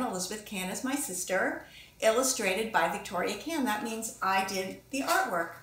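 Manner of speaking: plain reading voice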